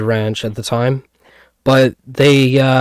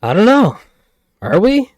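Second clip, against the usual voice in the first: mock coy; 8 semitones higher than usual. Playing along with sponsor joke.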